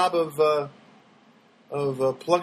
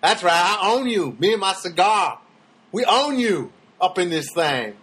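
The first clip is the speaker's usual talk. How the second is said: mock gloating. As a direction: lord it over the scared neighbor. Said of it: "And I thought to myself".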